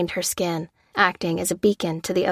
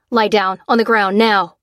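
barked order; 6 dB louder than usual. Acted. Soldier orders Lucy down.

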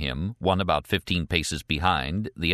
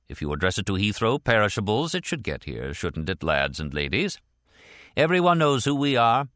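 lightly voiced official checking with colleagues; British supervisor; 2 semitones higher than usual. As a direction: play lightly to the team, then lift the last line. Supervisor plays to his colleagues.

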